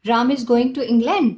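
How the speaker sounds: demonstrated surprise, landing on "England"; slow, mildly astonished exclamation; surprised exclamation. Shown as a demonstration. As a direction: exclaim it as startling news. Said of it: "I am very much surprised".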